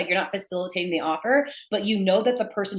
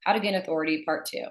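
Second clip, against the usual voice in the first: monotone. Shown as a demonstration. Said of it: "imagine if I was just like".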